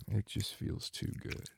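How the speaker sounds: soft unvoiced whisper of pleasure. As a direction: breathe it out as a whisper. Same words repeated whispered.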